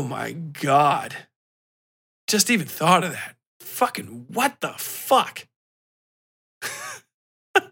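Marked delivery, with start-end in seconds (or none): none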